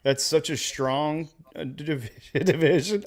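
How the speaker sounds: mock praise, breaking into laughter; sarcastic, can't keep a straight face. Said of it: "I can't even say it with a straight face".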